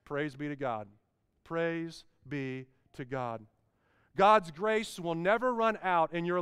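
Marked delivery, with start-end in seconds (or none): 0.1-3.4 hushed praise. Acted. Quiet praise aside.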